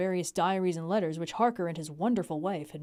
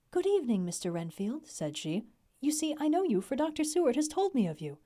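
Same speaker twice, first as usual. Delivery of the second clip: woman's voice; 6 semitones higher than usual. Acted. Mrs Harker greets Renfield.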